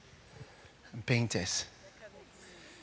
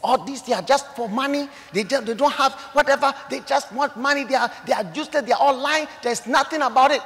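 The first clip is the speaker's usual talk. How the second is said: loud, higher mocking auntie sneering at pastors; scornful auntie; 6 semitones higher, 7 dB louder than usual. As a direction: spit it out like a scoffing aunt. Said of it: "She said".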